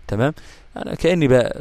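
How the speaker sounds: usual speaking voice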